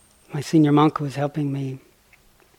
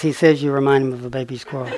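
laughing; faster than usual. Retold or imitated.

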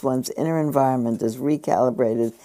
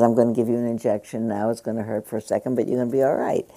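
brisk medical worker; faster than usual. Retold or imitated. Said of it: "some medical worker says".

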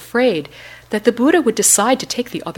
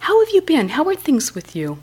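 eager, much higher friendly question; very warm; 10 semitones higher, 4 dB louder than usual. A narrator's reading. Buddha asking his old friend Mara, warmly. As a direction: reach out with real affection. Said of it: "The Buddha repeated very warmly".

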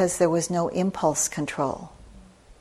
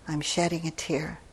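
tearful whisper of mom's words; whispered repeat; 6 dB quieter than usual. Retold or imitated. Mother crying in the car, repeating it in a whisper. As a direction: breathe it out as a hushed echo. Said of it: "my mom was crying".

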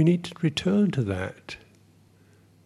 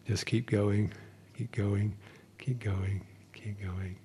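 fading encouragement; 4 semitones lower, 6 dB quieter, slower than usual. Acted.

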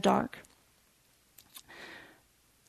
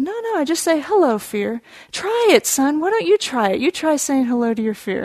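higher, lively coaxing dad; encouraging urging; 4 semitones higher, 3 dB louder than usual. Retold or imitated. Father urges his hesitant son to try, encouraging. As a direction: coax him to give it a try.

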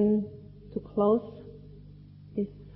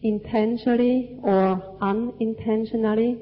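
slow, measured phrases for repeating; language lesson narrator. Real, not acted. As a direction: recite it line by line for the group to echo. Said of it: "say part of the sentence and you repeat after me".

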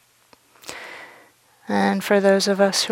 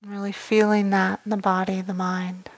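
calm meditation guidance with long, unhurried pauses; measured meditation voice, letting each phrase settle; guided meditation. Real, not acted. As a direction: guide them gently inward, leaving space after each phrase.

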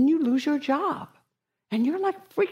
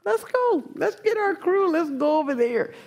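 hyped-up rallying cry; 7 semitones higher than usual. Retold or imitated.

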